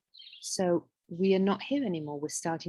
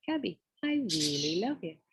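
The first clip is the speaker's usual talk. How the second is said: tender self-love; 4 dB quieter than usual. Shown as a demonstration. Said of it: "And then you say your name".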